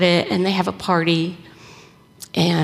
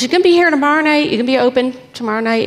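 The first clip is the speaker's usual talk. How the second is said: eager question; 3 semitones higher, 4 dB louder, much faster than usual. Retold or imitated. Campolo eagerly asking the owner.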